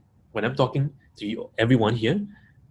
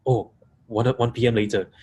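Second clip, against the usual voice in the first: questions run together with little space; stacked questions. Shown as a demonstration. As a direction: pile one question on the next. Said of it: "If I stack questions like this".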